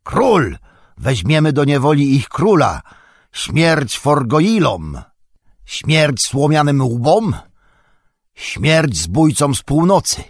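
high, drawn-out chanting yells of an enemy horde; screamed war cries. A narrator's reading. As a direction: call out threats like a hostile army. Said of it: "wrzeszczą". (przeciągłe bojowe wrzaski)

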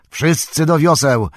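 high, loud rallying shout; Boromir. A narrator's reading. Boromir rallying the rowers in danger, shouting. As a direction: yell an order to the whole crew. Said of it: "krzyczał Boromir".

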